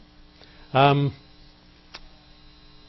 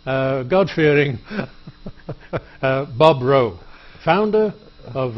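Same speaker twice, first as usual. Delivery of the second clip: louder, hammed-up build-up of the guest; mock grand intro; 4 dB louder, slower than usual. Host hyping up his guest, hammed-up grandeur. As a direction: puff him up like a showman.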